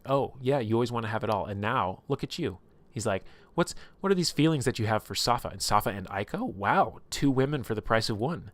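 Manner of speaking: mocking retold jeer with mild bite; lightly acted taunt. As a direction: needle him with lively sarcasm. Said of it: "like, taunting him".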